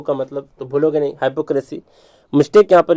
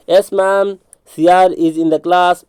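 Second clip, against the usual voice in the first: higher, drawn-out pupil's reply; pupil answering teacher; 4 semitones higher, much slower than usual. Acted. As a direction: answer the roll-call like a pupil. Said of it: "नहीं बोलते ऐसे". (कक्षा में madam को जवाब देता छात्र)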